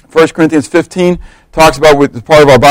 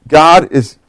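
ordinary talk, nothing marked

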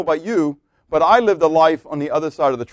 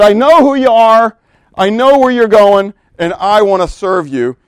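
earnest confession; 6 semitones higher, 11 dB louder than usual. Acted. Thief's imagined confession, preached.

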